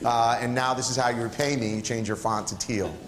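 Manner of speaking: playful mock disappointment, hammed-up, with a laugh; mock scolding. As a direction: tease the chatroom like a let-down parent. Mock scolding of the chat lounge.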